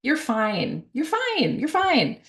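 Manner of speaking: imitating a parent's high, hurried soothing; dismissive reassurance. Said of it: "dismiss my kids' feelings".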